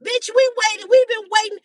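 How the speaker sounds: a touch of a mock cheated grumble; mild mock complaint. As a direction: complain like you were cheated, half-acted. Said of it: "Your pussy is even mad".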